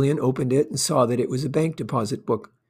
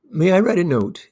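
lifted, louder polite request; smiling; 5 semitones higher, 5 dB louder than usual. A narrator's reading. Gillian asks Miss Hayden to write a note, smiling. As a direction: ask it lightly through a smile. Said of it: "asked Gillian with a smile".

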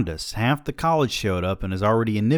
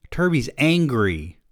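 put-on a little girl's whine, higher and slow; child whining; 7 semitones higher, 4 dB louder, slower than usual. Small daughter complaining to her father, whiny. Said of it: "Sarah whined".

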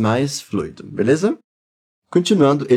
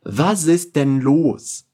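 slow, careful German model line; slow teacher demo; slow model phrase; much slower than usual. Shown as a demonstration. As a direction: say it slowly for learners to repeat. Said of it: "Repete comigo".

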